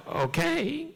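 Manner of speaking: retold assistant. Assistant answers, high voice.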